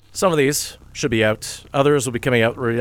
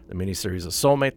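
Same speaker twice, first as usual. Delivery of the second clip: The miniseries The Soulmate said fast and a little lower as a fix; quick correction; 4 semitones lower, faster than usual. Real, not acted. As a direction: rattle off The Soulmate again quickly. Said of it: "get the words in the right order".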